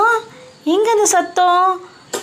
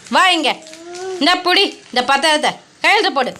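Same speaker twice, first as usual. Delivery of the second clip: lightly voiced scolding sister; bossy older sister. Greedy elder sister ordering Rani to sign the deed, bossy. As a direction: order her around impatiently.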